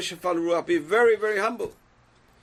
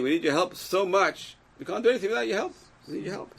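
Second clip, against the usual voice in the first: sincere plea; 3 semitones higher than usual. Shown as a demonstration. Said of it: "That's what we need to say".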